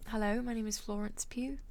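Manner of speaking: put-on halting British-accented introduction. Streamer posing as an actress for chat, British accent. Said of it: "talk in a British accent".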